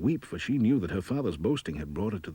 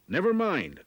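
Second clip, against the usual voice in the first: high, louder sly dwarf; 10 semitones higher, 4 dB louder than usual. Acted. Dwarf brushing off Anna's question, high and louder. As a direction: snap it off like a crafty dwarf. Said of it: "said the dwarf".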